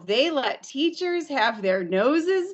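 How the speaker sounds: a hint of an amazed president; president's delighted surprise. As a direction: play the president pleasantly surprised. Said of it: "he kind of paused and he said".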